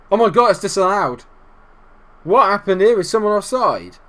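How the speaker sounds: loud, high surprised outburst; amazed relief. Real, not acted. Gamer finding the goal disallowed, amazed outburst.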